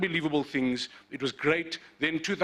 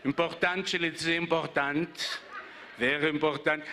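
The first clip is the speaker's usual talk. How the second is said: imitating Malik's accent. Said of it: "the way you say important".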